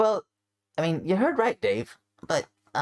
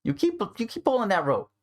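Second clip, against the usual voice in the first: stern gruff character; 9 semitones higher than usual. Acted. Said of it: "It's like".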